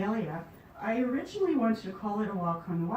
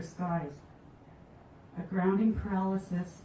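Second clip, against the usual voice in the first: measured poem recital with pauses between phrases; poetry reading. Acted. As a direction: let each image stand alone, pausing after it. Reads her poem Convergence.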